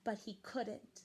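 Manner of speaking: gentle storybook read-aloud; reading to children. A narrator's reading. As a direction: read it like a bedtime picture book for kids. Reading picture book to children.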